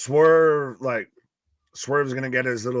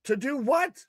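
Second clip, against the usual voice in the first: laughing; 13 semitones higher, 6 dB quieter than usual. Real, not acted. Playful high voice, laughing.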